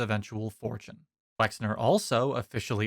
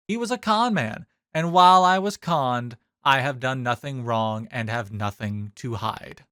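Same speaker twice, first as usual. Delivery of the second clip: mock whiny quote; 3 dB louder than usual. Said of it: "In a quote, he said that".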